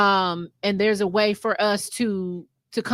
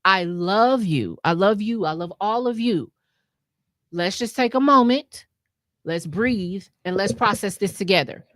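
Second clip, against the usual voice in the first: reassuring partner; 3 semitones lower than usual. Retold or imitated.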